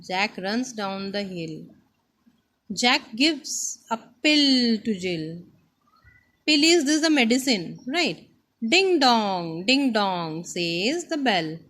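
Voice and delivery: deliberate, emphatic lesson reading; reading to children. Acted. Teacher reads the next page to the class, emphatic. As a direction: read it out to a class, drawing out key words.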